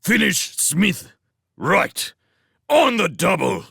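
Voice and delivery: loud, high military commands; drill-sergeant shouting, short bursts; shouted orders. A narrator's reading. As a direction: bark orders at your squad. Squad leader shouting orders.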